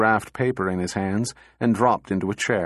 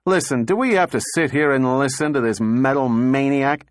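irritated; 4 semitones higher, 3 dB louder than usual. Acted. Donovan complains about robot.

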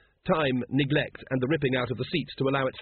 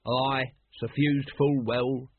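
slow ritual answer; intoned response; much slower than usual. A narrator's reading. Lodge brother giving the ritual response, slowly intoned. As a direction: answer ceremonially, stretching the words.

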